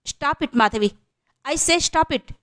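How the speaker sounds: high-pitched outburst without added volume; agitated mock yell. A narrator's reading. Archana stopping Madhavi's insults, an understated agitated cry. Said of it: "ఆవేశంగా అరిచింది అర్చన".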